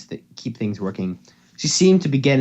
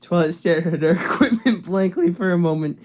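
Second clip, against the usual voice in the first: laughing while reading; 5 semitones higher than usual. Real, not acted.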